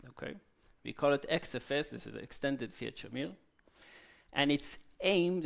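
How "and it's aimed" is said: "aimed" drawn out for emphasis; stress on aimed. Real, not acted. Lecturer emphasizing a careful claim to the audience, stress on "aimed". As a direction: lean slowly on the word "aimed". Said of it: "I wanna emphasize the word aimed".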